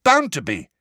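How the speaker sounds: excitedly sure of it. A narrator's reading. Ron forcing the door open with Harry, excited. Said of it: "said Ron excitedly".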